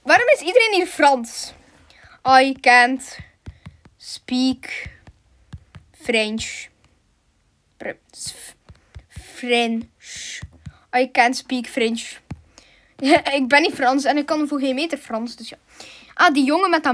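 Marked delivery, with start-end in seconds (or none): 2.3-10.4 "I can't... speak... French" with long pauses between words; halting word by word. Real, not acted. Player telling French players off, "I can't speak French" word by word. 10.9-12.2 "I can't speak French" slowly in one run; slow, connected. Real, not acted. Player telling French players, "I can't speak French" slow but connected.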